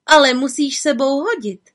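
high cheeky witch dare; cheeky little witch. A narrator's reading. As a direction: tease the ogre fearlessly. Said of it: "řekla malá čarodějnice".

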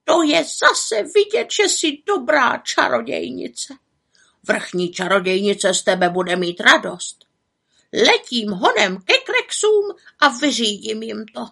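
lightly voiced eager raven; a hint of a pleased raven, partly hushed; raven's voice. Raven Abraxas praising the witch, lightly voiced.

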